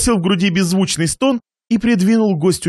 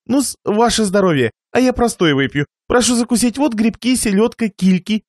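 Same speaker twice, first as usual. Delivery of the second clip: чуть повышенный голос хозяина; угощай гостя, перечисляя закуски; радушный хозяин; 4 semitones higher than usual. Acted. (хлебосольный хозяин)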